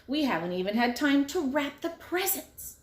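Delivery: high, loud family yelling; whole family yelling on the road. A narrator's reading. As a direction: shout it together in a rush. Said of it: "came down the road yelling".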